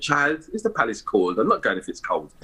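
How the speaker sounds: mum's West Indian accent, lightly imitated. Son retelling his mum's reply to the palace invitation, West Indian accent. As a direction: imitate a West Indian mother questioning her child. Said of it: "in a West Indian accent".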